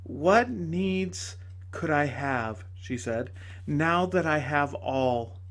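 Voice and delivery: a lightly voiced joyful lady; lady's voice. Lady speaks to tragedian.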